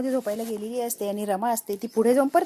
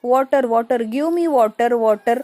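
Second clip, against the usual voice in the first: insistent, louder call for water; drunk demand for water; 6 dB louder, much slower than usual. Acted. Drunk Reva calls out for water in the kitchen, loud and demanding. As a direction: call out loudly, word after word.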